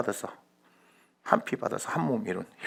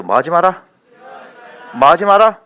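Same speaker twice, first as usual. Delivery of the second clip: rally the crowd to answer, building to a shout; loud, rising preacher's call; escalating shouted prompt; 7 semitones higher, 16 dB louder than usual. Real, not acted. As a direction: call out louder and higher each time. Leads congregation in escalating call-and-response.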